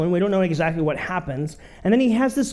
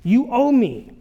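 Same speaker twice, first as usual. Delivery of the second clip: demanding; 5 semitones higher, 4 dB louder, slower than usual. Acted. Servant choking debtor, demanding.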